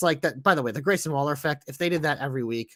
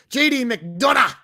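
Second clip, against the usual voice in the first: ring announcer; 7 semitones higher, 7 dB louder, slower than usual. Pretend. Hyped announcing of the match card.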